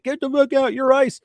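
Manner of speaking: high, barking retold command to get out; mock angry order. Agent ordering the journalist out of the car, mock angry shout.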